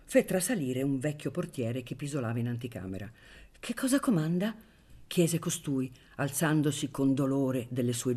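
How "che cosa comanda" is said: put-on high-pitched questioning old porter; startled doorkeeper. A narrator's reading. Old doorkeeper roused from his nap by the baron, startled. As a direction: answer as a porter jolted from a nap.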